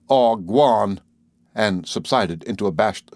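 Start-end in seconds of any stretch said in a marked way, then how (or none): 0.1-1.0 louder gruff brush-off; grumbling dismissal. A narrator's reading. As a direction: wave him off gruffly. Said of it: "he gave out an".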